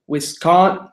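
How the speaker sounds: clumsy stab at a Wisconsin accent; half-managed Wisconsin accent; failed Wisconsin accent. Shown as a demonstration. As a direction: attempt Wisconsin vowels, not quite landing the accent. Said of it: "I can't do a Wisconsin accent".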